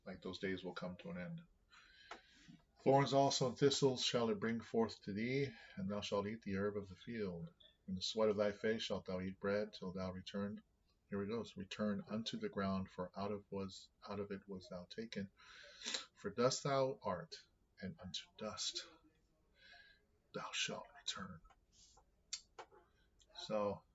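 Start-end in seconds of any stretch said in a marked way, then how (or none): 2.8-10.6 scripture reading. Acted. Reads scripture aloud. 11.6-21.4 scripture reading. Acted. Reads scripture aloud.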